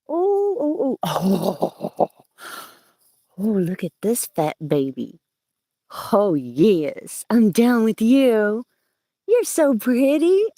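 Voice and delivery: high, slow gushing over the plant; super excited. Real, not acted. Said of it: "I get super excited about that".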